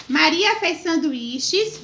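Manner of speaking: slow, deliberate dictation; dictating. Shown as a demonstration. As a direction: spell it out word by word. Teacher dictating, slowed.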